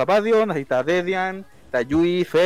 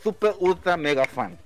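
smug superfan; 3 semitones lower than usual. Acted. Superfan persona.

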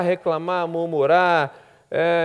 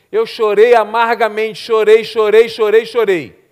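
mock lament; 4 semitones higher, 9 dB louder, slower than usual. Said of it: "testemunho dela foi assim".

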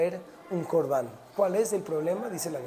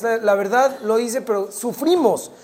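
raised, put-upon protest; mock suffering complaint; 4 semitones higher, 6 dB louder than usual. Hijo llega con su mamá, quejándose. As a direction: play the child grumbling about the chore. Child complains to mother after chore.

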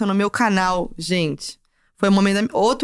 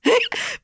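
sudden high-pitched giggle; 13 semitones higher than usual. Real, not acted. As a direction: giggles at the memory. Laughs at a band display.

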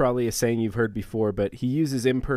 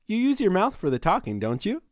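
mock God, much higher and louder, building to the end; hammed-up God; 11 semitones higher, 5 dB louder than usual. God teasing Moses about his mouth, a hammed-up high loud voice. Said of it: "to put it in the Herald version".

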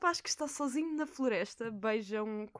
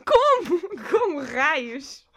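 slow, loud, drawn-out how on earth; stunned disbelief; 6 semitones higher, 13 dB louder, much slower than usual. Real, not acted. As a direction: stretch out the disbelief. Shocked at Beauty and the Beast answer. (espanto incrédulo e arrastado)

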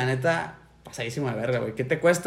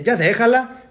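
retold yell; 5 semitones higher, 5 dB louder, slower than usual. Neighbour yells at man fighting.

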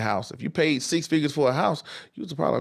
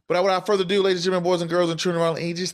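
ringmaster; 3 semitones higher, faster than usual. Acted. Showman opening to the audience.

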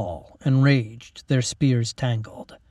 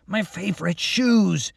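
higher, slow whine of dismay; a hint of a young man's disgust; lightly voiced dismayed Mac; 7 semitones higher than usual. Mac's character voice.

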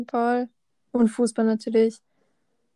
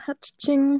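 sneezing; 3 semitones higher than usual. Real, not acted. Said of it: "Was soll das jetzt?".

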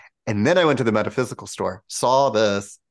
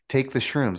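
higher, firm inner command; the voice inside insists; 5 semitones higher than usual. Retold or imitated. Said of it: "not outside voice".

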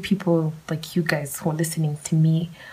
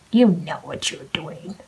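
slower and whispered, pointed; a slow knowing whisper; slower than usual. Shown as a demonstration.

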